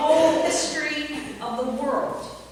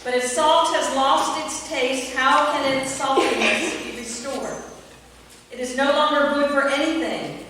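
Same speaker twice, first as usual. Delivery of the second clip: scripture reading. Acted. Reading scripture aloud to the congregation, solemn and proclaiming.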